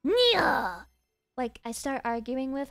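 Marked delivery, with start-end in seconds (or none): 0.1-0.9 loud, drawn-out "nya" back at the cat; mock cat meow. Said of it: "I just go".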